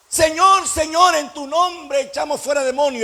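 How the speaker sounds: high, loud chanting cry; hypocritical pleading. Acted. Hypocrites boast to the Lord, loud high mock-pious appeal. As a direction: call out with hammed-up piety. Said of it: "la hipocresía de la gente".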